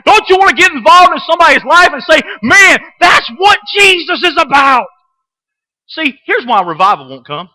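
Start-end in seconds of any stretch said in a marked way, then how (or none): 2.4-4.9 slow, loud and rising praise; fervent shout. Pretend. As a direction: call it out with conviction. Preacher shouting an imagined quote.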